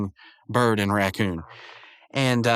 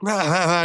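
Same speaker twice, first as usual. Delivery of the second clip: higher-pitched imitated "ah ah ah" laugh; mock gloating laugh; 6 semitones higher than usual. Prankster gloats over the two losers, mock laughing. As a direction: fake a cartoon villain's laugh.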